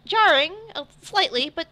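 high-pitched, halting, unsure delivery; hesitant, dazed Tegan. Acted. Hallucinating Tegan answers the friend comforting him, high and hesitant. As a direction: feel out each word in a high, wondering voice.

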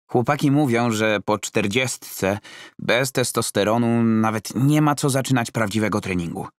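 repeating gym gossip as gospel; Roman, earnest. Acted. Roman quoting the guys to his coach, high and earnest.

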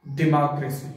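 "डेमोक्रेसी" as di-MAA-kruh-see; correct pronunciation. Shown as a demonstration. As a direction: say "डेमोक्रेसी" with short di and open long MAA. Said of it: "correct pronunciation".

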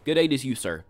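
hammed-up gentleman greeting; mock polite. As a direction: say it like a fancy gentleman.

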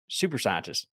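low sarcastic repeat; dry mocking echo of a quote. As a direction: drop low and mock the phrase. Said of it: "I can hear the tone".

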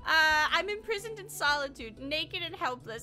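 a touch of a distressed lady reading her letter; dramatic letter reading. Acted. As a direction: read it like a pleading maiden. Reads letter in damsel voice.

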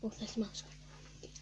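slow sarcastic whisper. Real, not acted. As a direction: whisper it slowly. Whisper after stink.

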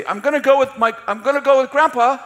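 put-on a kid begging to tag along; young boy voice. Boy telling mom excitedly.

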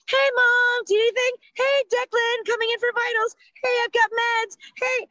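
high, lilting, chirpy check-in voice; sing-songy nurse voice. Retold or imitated. Mom mocking the nurses' constant sing-song check-ins. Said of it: "that sing-songy voice".

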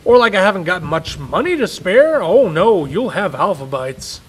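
loud, bitter grumble; father grumbling out the door; sarcastic anger. Acted. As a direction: mutter it bitterly as you leave. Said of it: "Daddy was angry".

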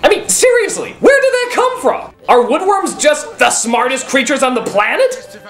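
rising, laughing, incredulous rant; laughing disbelief. Real, not acted. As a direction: laugh through the outrage. Incredulous rant about woodworm.

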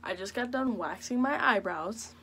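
talking with a retainer in; wearing a retainer. Real, not acted. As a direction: speak around a retainer in your mouth. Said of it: "I have my retainers in".

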